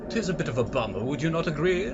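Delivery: mock-proper English ghost; posh English, lilting up into the question; posh English accent. Gamer teasing the game's ghosts, posh English accent. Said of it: "posh accents".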